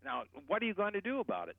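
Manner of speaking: a hint of angry caller; mock angry demand. Shown as a demonstration. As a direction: push back hard on the phone. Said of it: "you get very angry and you say".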